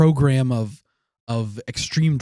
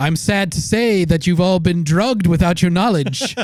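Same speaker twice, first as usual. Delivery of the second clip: put-on sinister scientist voice, higher pitch; 5 semitones higher, 4 dB louder than usual. Acting out a scientist addressing drugged guests: Sidney Gottlieb impression. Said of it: "That's my Cindy Gottlieb impression".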